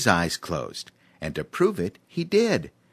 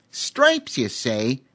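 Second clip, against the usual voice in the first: high squeaky scheming chimp; sly chimp; 4 semitones higher, slower than usual. A narrator's reading. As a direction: perk up like a cunning chimp. Voices Cheemy the chimp.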